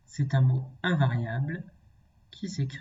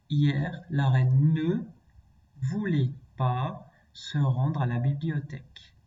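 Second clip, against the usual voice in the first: "ne" and "pas" set apart around "voulait"; stress on ne and pas. Shown as a demonstration. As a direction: lean on "ne" and "pas" to show the negation. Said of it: "Et je te le montre".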